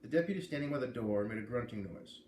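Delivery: lively first-person read-aloud; story narration. A narrator's reading. A reader opening chapter one for listeners, in lively narration. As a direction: read the chapter to your audience, brightly.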